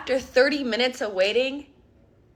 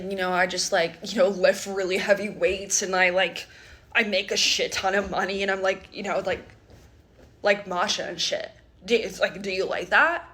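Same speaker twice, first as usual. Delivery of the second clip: lower, lazy bragging bro voice; dumb gym bro; 5 semitones lower than usual. Retold or imitated. Brother showing off to the friend, in a lower lazy bro voice. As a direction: brag like a clueless meathead.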